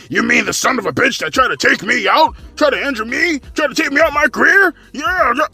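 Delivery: mildly hammed heated quote; heated rant. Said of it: "She got kinda heated".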